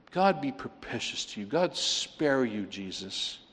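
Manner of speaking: quiet and drawn out, letting it sink in; hushed, slow emphasis for the congregation; soft, slow repeat. Shown as a demonstration. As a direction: repeat it softly and slowly so it sticks. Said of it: "I just really want that to stick".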